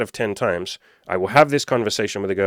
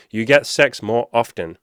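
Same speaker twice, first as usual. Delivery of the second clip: "You get sex more often" slow and punched; drilling the point; 3 dB louder, slower than usual. Real, not acted. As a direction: drive home "sex more often", each word stressed. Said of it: "am I gonna drill that point".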